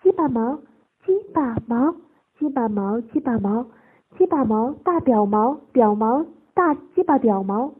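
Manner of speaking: loud, emphatic repeated phrases; urgent. A narrator's reading. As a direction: blurt it out urgently. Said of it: "鹏飞急说道".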